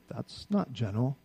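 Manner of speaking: slow and soft; pointed verdict on the president, soft and slow. Shown as a demonstration. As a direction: let it drop quietly and slowly. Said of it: "I can look at our president and say".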